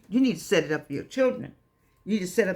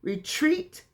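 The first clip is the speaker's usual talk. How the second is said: call and response; 2 semitones higher, slower than usual. Shown as a demonstration. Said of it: "Say it again".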